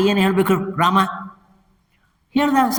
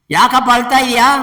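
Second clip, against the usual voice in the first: higher, louder questioning sage; lightly voiced Narada; 4 semitones higher, 5 dB louder than usual. Sage asking weeping Rama why he cries, raised questioning voice. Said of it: "Narada ಕೇಳ್ತಾನೆ".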